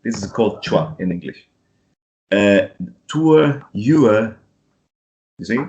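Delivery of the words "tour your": tour and your ending in a relaxed schwa, no R; British no R. Shown as a demonstration. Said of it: "not going to pronounce the R".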